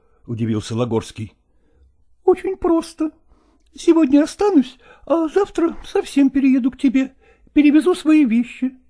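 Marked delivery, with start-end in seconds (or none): 1.8-8.8 higher, breezy and certain; cheerful actress. A narrator's reading. Nastina tells Lagorsky she will move in, higher breezy voice. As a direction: announce it as if settled.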